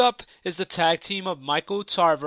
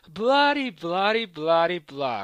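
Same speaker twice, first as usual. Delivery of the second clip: dismissive mockery. Dismisses rival's quote as blah blah.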